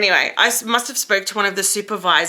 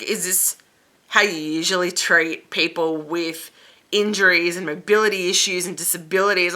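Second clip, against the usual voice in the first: passive aggressive; 2 semitones lower than usual. Retold or imitated. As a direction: retell it with pointed, held-in annoyance.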